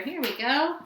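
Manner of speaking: ordinary delivery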